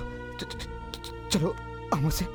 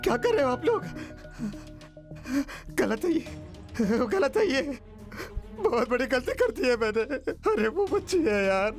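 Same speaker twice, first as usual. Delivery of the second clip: higher, panting plea; distressed protest; 3 semitones higher than usual. Acted. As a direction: object in breathless distress. Horrified man protests friends' plan. (घबराहट भरा विरोध)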